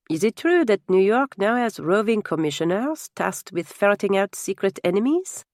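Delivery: put-on French-accented, curious question; lightly voiced French guest. French guest questions his host over dinner, lightly accented and curious.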